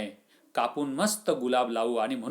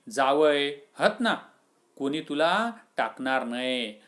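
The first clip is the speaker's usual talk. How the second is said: forced cheer. Acted. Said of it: "Abu उसनं हसत म्हणाला".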